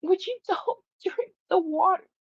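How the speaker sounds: high, laughing plea to the cat. Real, not acted. Begging the cat not to drink, laughing high. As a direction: plead through a laugh.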